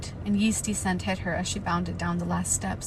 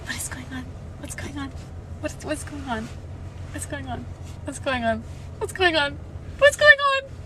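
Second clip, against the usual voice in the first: rising panic; 7 semitones higher than usual. Real, not acted. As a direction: start hushed and spiral into a shriek. Panicking at the scene.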